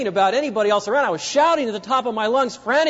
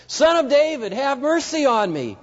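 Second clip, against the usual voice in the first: high, stubborn plea over the hecklers; crying out; 6 semitones higher than usual. Retold or imitated. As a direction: keep calling, won't be silenced. Blind beggar cries past hecklers.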